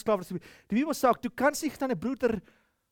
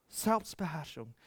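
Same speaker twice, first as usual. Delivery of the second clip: "Selbstbeherrschung" repeated much softer, almost to himself; hushed echo of "Selbstbeherrschung"; 4 semitones lower, 10 dB quieter than usual. Shown as a demonstration. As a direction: let "Selbstbeherrschung" fall quiet and low.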